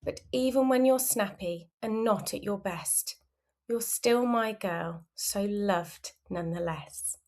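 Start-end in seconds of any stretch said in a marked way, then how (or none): 3.7-7.2 soft unvoiced whisper. Real, not acted. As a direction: breathe it tenderly. Tender aside in story.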